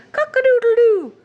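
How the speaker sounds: American rooster crow. Shown as a demonstration. Teacher contrasting American rooster crow. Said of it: "they say".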